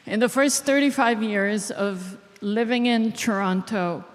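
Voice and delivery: a light laugh to recover, then going on. Real, not acted. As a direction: shake off the emotion with a chuckle.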